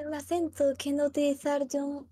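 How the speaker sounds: put-on slipping into a Russian accent; broken Spanish with a Russian accent. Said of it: "se me ha mezclado el ruso".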